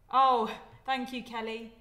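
loud, slow delighted thank you. Real, not acted. Vlogger thanking a viewer for a donation, delighted.

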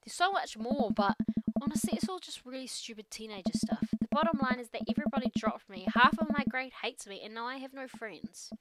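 a lightly voiced teenage girl venting; teen daughter voice. Teen daughter venting to her dad, lightly voiced. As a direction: play it as an upset teen unloading. The speaker confiding sadness.

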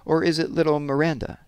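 lightly voiced old lady with a faint foreign accent. A narrator's reading. Old lady guesses the girl's name, faint foreign accent. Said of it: "with its faint foreign accent".

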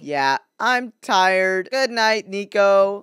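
slow, stilted bad impersonation; drawn-out, fake tired reply; weird impostor voice. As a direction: pose as someone else, unconvincingly. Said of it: "why do you sound so weird".

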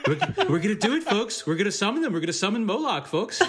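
laughing Trump impression; rally Trump, amused. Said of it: "Trump, like".

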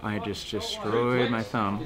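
shaky after a hard ride; slow, worn-out post-ride voice; adrenaline shakes. Real, not acted. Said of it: "my hands are shaking".

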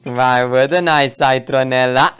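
low, slow taunting reply; unhurried villain's retort; smug opponent. Acted. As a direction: drawl it slowly at your foe.

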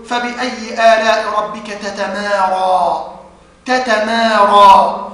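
both ta sounds in تتمارى pronounced separately; slow, measured recitation, each ta in تتمارى distinct; clear izhar. Shown as a demonstration. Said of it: "قالوا لنا وجوب الإظهار، فنقرأ". (إظهار التاءين في تتمارى بتمهّل)

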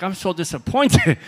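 high, loud, through laughter; mock disappointment, laughing. Mocking the man who only killed a squirrel, laughing. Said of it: "I'm like".

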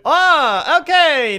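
light up as the menu finally shows; sudden realisation. Real, not acted. Streamer spotting the invite option, surprised aha.

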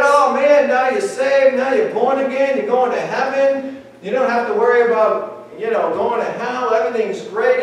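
hammed-up excitement at a fresh convert; mock excited. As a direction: gush over the new convert. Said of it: "We get all excited".

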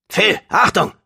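high, urgent warning cry; warning call. A narrator's reading. A familiar voice warns Phil in the fight, called out high.

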